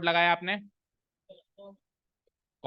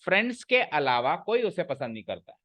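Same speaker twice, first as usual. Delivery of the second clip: फ्रेंड्स के अलावा as its own unit, falling ending; phrase read separately. Shown as a demonstration. Teacher repeating the reading, अलावा phrase set apart. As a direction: separate friends के अलावा from कोई उसे पसंद नहीं करता है. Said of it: "अलावा को मैं अलग पढ़ूंगा".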